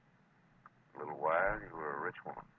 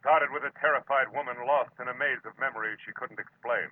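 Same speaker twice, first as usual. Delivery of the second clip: louder, higher, ominous preview read; dramatic teaser; 4 semitones higher, 6 dB louder than usual. Acted. Marlowe teasing next week's episode, dramatic and ominous. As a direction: build to the word death.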